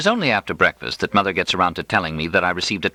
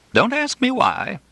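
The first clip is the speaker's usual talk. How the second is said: laughing at herself. A narrator's reading. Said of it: "she cries, laughing at herself".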